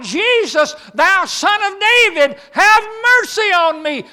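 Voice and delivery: loud, high desperate cry for mercy; blind man shouting. Acted. Blind man calling out to Jesus, loud desperate shout. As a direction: cry out to be heard over the crowd. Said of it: "shouting out".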